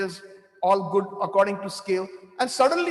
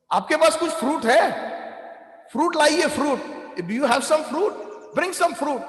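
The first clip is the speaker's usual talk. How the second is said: eager call; 5 semitones higher than usual. Retold or imitated. Calling shopkeeper for fruit urgently.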